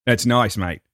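"nice, mate" in a badly faked Aussie accent; amateur Australian accent; attempted Australian accent. Shown as a demonstration. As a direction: try it like an Australian. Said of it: "can't do an Australian accent".

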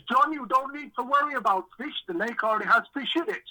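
a hint of a Dutch businessman on the phone; Dutch impression. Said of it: "I'll try and do a Dutch impression".

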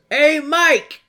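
high loud call across. Retold or imitated. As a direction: shout for Mike. Guard calling over Mike.

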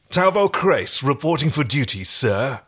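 a hint of a stiff soldier reporting; stiff barking toy soldier. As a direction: salute it out, solemn and dutiful. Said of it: "The voice was solemn and dutiful".

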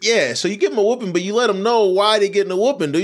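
ordinary talk

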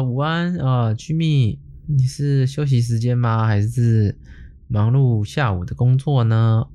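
lightly hammed sweet chat opener; mock sweet greeting. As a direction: drawl it out like a fawning scammer. Scammer's sweet greeting read out.

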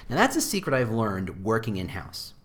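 ordinary talk

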